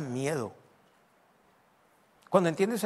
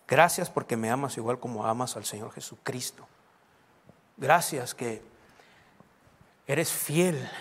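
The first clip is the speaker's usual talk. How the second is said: lower-pitched, unforced thanks; everyday prayer; 5 semitones lower than usual. Shown as a demonstration. Pastor thanking God in a demonstration, simple low prayer. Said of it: "Así empiezo orando todos los días".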